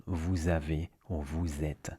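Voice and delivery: vous avez and vous êtes run together with a Z link; linked words. Shown as a demonstration. Teacher giving examples of the trick, linked words. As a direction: join vous to avez and êtes as vou-zavez, vou-zêtes. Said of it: "that's a little trick that's useful".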